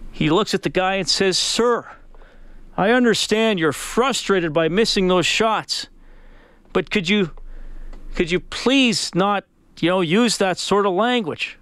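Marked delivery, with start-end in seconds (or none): 1.4-11.6 higher, measured, mildly exasperated plea; fed-up politeness. Retold or imitated. Pastor asking golfer to stop swearing, restrained exasperation. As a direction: act a pastor straining to stay polite. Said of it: "the pastor has had enough".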